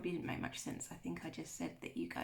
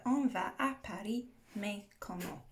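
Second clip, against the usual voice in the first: a bit fast. Shown as a demonstration. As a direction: say the French phrase briskly, in one run. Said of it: "I'm probably saying that a bit fast".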